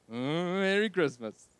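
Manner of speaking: a hint of someone else's festive greeting; understated imitation of a friend's greeting; Eddie's voice. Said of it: "as Eddie would say".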